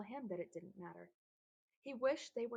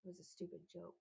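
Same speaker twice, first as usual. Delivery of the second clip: blurted; 8 dB quieter, faster than usual. A narrator's reading. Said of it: "Joel blurted".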